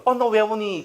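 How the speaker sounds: put-on high-pitched fussing over a crying child; put-on coaxing question; coaxing parent.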